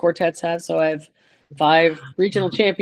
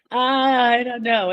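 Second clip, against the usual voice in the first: drawn-out, higher-pitched doubt; retold hesitation; 5 semitones higher, much slower than usual. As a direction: stretch it out as if very unsure. Retold doubt after being freaked out.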